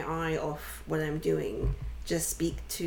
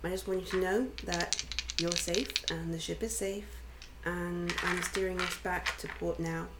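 soothing voice. Acted. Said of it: "a really soothing voice".

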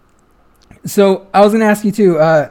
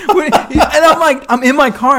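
exasperated disbelief; 10 semitones higher, 6 dB louder than usual. Retold or imitated. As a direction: stretch out the shocked protest. Reliving the shock in the car.

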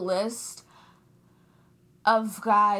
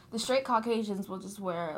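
whispered aside; 3 semitones lower, 6 dB quieter than usual. Real, not acted. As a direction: drop to a gossipy whisper. Gossipy aside about the boys.

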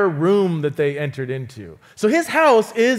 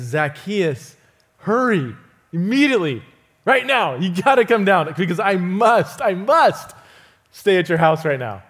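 bold call. Retold or imitated. Jesus calling Zacchaeus down from the tree, bold and urgent. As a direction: call him down boldly, pressing each word. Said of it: "very daringly, boldly says".

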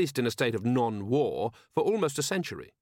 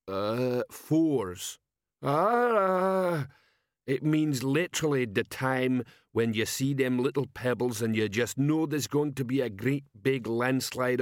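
slow-witted troll sergeant; 2 semitones higher, slower than usual. Acted. Troll sergeant asking his commander, dim troll voice.

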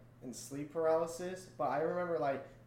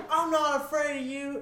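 high, louder mock bravado breaking into laughter; laughing bravado; 9 semitones higher, 6 dB louder than usual. Retelling the ghost boast to friends, louder through laughter. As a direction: repeat the boast while cracking up.

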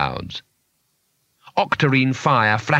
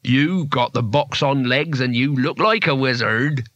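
slow, lightly voiced townsman; menacing townsman; slower than usual. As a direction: draw out the accusation slowly. Menacing townsman figure in the story.

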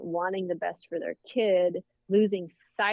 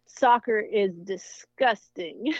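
slow, lightly voiced little girl, disgusted; five-year-old's disdain; 3 semitones higher, 4 dB louder, slower than usual. Daughter dismissing soccer, lightly voiced childish disgust. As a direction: imitate a small girl declaring disgust. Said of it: "and she says".

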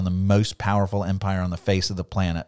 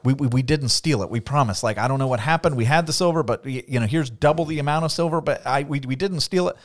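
stammering, higher mock plea of innocence; pleading brothers; 3 semitones higher than usual. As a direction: beg him to believe you, a bit flustered. Brothers pleading before Joseph.

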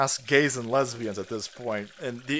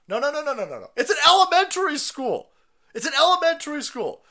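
much higher and louder indignant no; outraged protest; 11 semitones higher, 6 dB louder than usual. Real, not acted. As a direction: protest in disbelief at the school.

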